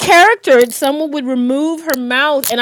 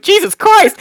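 laughing exclamation; 6 semitones higher than usual. Retold or imitated. Exasperated exclamation after choking.

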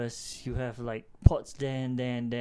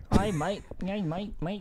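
clumsy, higher-pitched Australian accent attempt; 4 semitones higher than usual. Shown as a demonstration. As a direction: have a halting go at an Australian accent. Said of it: "do a proper Australian accent".

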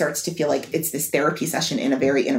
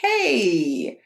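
rescuing husband. Acted. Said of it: "sort of being the rescuer".

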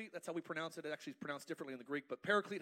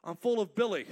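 much louder, excited mock shout; crazy church excitement; 2 semitones higher, 10 dB louder than usual. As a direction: whoop it like a wild revival. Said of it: "You go to crazy church".

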